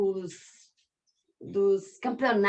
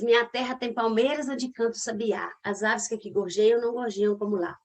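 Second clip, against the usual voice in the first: poem reading. Shown as a demonstration. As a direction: recite Minha terra tem palmeiras whole, flowing. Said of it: "Olha eu de sete sílabas".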